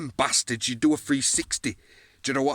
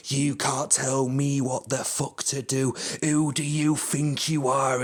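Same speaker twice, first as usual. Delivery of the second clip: slow, mocking put-on voice; mimicking the opponent with a sneer; mocking Swan; slower than usual. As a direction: parody the rival's indignation, dragged out. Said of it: "fucking Swan, come on, going".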